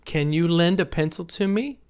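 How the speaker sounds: yes-no question with "me" rising at the end; rising question tune. Shown as a demonstration. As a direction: let the pitch climb on "to me". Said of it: "my voice kinda goes up at the end".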